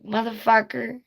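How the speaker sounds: high squawking bird cussing; squawking parrot. Retold or imitated. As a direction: screech it like a parrot. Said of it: "She's like".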